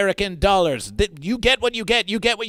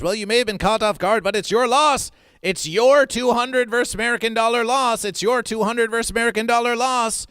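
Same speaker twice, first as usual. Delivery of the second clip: gloating; 4 semitones higher than usual. Acted. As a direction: rub the loss in their face. Gloating at losing bidder.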